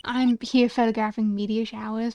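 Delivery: lightly played friendly Southern woman; half-hearted Southern accent. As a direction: introduce yourself with a rough country twang. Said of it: "you're getting a half-assed accent from me".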